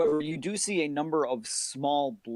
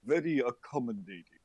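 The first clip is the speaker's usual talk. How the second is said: lightly voiced villager NPC; calm village NPC. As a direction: speak as a calm, peaceful local.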